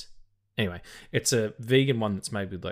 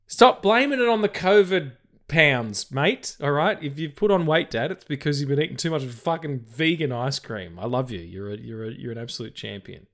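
scolding; 3 semitones higher, 5 dB louder than usual. Retold or imitated. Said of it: "I'm like".

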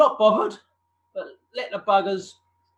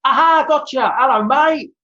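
put-on high, loud, fast happy greeting to an old friend; excited greeting; 7 semitones higher, 6 dB louder than usual. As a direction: burst out delighted to finally get through. Finally connected on video call.

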